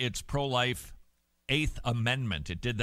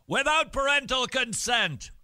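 incredulous; 13 semitones higher, 5 dB louder than usual. Real, not acted. Reading the Irish headline aloud, stunned and disbelieving. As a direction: voice jumps way higher and louder on the last words.

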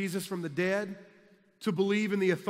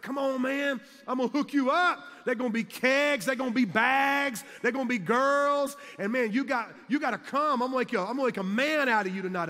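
high, loud pushy party invite; hyped-up teammate; 5 semitones higher, 4 dB louder than usual. Retold or imitated. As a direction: talk him into the party, all swagger. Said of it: "He's like".

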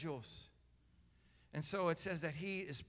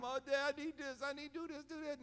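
put-on higher, whiny pleading kid voice; mock begging child; 9 semitones higher, faster than usual. Preacher mimics believers begging God, higher mock plea. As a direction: play a needy kid pestering Dad. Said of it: "begging him".

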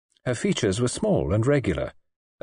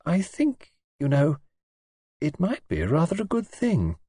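gently; 6 semitones higher than usual. A narrator's reading. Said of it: "Then she said gently".

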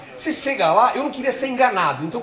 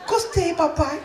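put-on much higher child's voice; little boy voice; 9 semitones higher, slower than usual. Toddler son asking daddy why, high child voice. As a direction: ask it like a tiny toddler.

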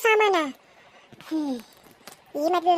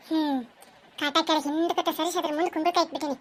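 scheming aside; 3 semitones lower, 7 dB quieter than usual. Acted. Villain plots alone while hiding gold.

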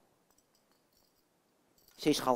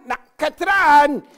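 calling out; 5 semitones higher, 6 dB louder, slower than usual. Acted. Jan calls Katrijn impatiently.

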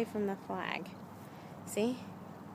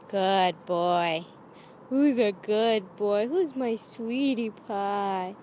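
lovey dovey; 4 dB louder, much slower than usual. Real, not acted. Cooing praise at dog.

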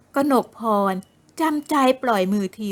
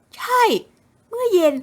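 higher, aggrieved complaining voice; aggrieved young woman; 8 semitones higher than usual.

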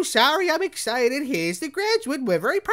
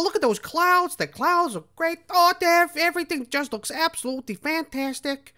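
lightly voiced chipper character; a hint of a perky cartoon voice; cheery character; 3 semitones higher than usual. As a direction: gush over the lovely morning in a put-on voice.

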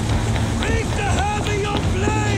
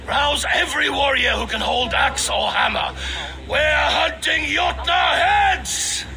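battle cry; 3 semitones lower than usual. Acted. Rallying warriors for battle.

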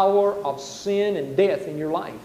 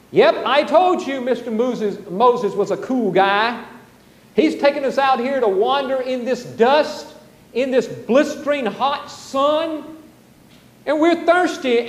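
higher, whiny complaining voice of a thirsty wanderer; mock-grumble against Moses, rising as you go; grumbling Israelite; 4 semitones higher than usual. Israelite grumbling to Moses about the desert, whiny and mocking. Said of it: "Let's listen to him for a moment".

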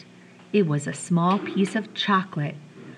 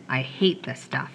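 soft unvoiced whisper of a secret; a hushed whisper, softer; whispered confession; 4 semitones lower, 6 dB quieter than usual. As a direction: breathe it so only he hears.

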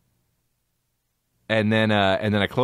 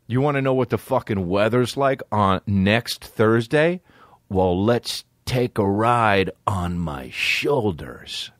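mock weatherman; slower than usual. Mock weatherman pitch again.

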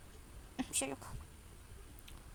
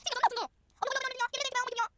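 pleading little sister; 10 semitones higher, much faster than usual. Acted. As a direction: plead innocence in a small high voice. Lidia protesting her innocence. (yüksek, ince sesli küçük kız kardeş sızlanması)

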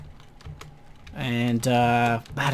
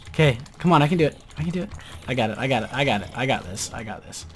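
psyching myself up; faster than usual. Real, not acted. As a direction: repeat it to steady your nerves. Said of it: "my heart's racing".

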